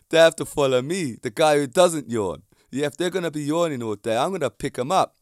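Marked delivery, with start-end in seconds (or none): 0.1-2.4 proud boast. Real, not acted. Boasting, louder.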